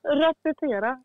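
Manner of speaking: amused echo of "Repetera", not shouted; laughing repeat. Retold or imitated. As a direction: giggle the word "Repetera" with a rising end. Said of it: "repeats the shout laughing".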